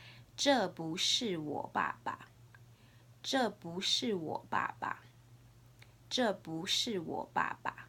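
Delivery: slow, careful Mandarin tones on 这不是我爸爸; Mandarin model phrase. Shown as a demonstration. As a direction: model 这不是我爸爸 slowly for students to repeat. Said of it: "repeat after me".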